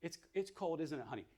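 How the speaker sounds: calm, tender reassurance at normal volume; soothing validating mom; gentle mother. Shown as a demonstration. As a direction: comfort the baby kindly. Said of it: "validates the baby's stress".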